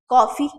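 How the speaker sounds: कॉफी as 'KAW-fee'; correct coffee vowel. Shown as a demonstration. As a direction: keep कॉफी open and rounded. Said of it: "अब सही है".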